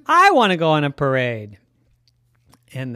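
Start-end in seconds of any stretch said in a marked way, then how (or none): 0.1-1.6 excited monkey voice. Acted. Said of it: "the monkey Stuffy said".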